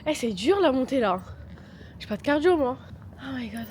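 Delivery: out of breath from the climb; puffing out of breath after stairs. Real, not acted. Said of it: "je suis essoufflée comme un bœuf".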